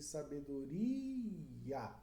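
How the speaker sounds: sabedoria stretched out slowly, every syllable clear; slow and drawn out. Shown as a demonstration. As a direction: draw sabedoria out so each syllable is heard. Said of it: "Sa, tem essa vogal". (sabedoria bem devagar, sílaba por sílaba)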